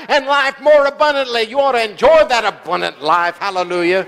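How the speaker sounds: celebratory church preaching, pitch riding up; exuberant preaching. Real, not acted. Preacher urging church to celebrate victories, exuberant preaching. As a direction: preach it like a praise party.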